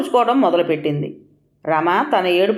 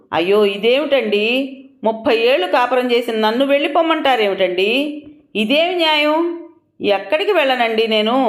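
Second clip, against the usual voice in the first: crying aloud; 3 semitones higher than usual. Acted. Wife begging her husband not to send her away, tearful wail. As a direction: plead through half-acted sobs. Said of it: "పెద్దగా ఏడుస్తూ".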